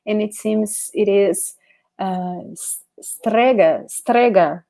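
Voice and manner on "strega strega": "strega" said slowly with a rolled Italian r; Italian word strega. Shown as a demonstration. Teacher modelling "strega" for the class. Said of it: "something like this".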